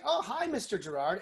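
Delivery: bright, loud telemarketer hello; overly enthusiastic. Retold or imitated. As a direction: gush like a pushy call-center rep. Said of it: "somebody's overly enthusiastic".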